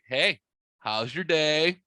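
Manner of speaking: slow, drawn-out imitation of a coy greeting; knowing, casual. Sister calling after hearing about the mistake, coyly casual. Sister's loaded call, retold.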